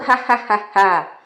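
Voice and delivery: acted, spelt-out ha-ha laugh; contented laugh. Donkey going on his way contented, acted laughing. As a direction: give a staged, happy ha-ha. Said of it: "contente e repetindo".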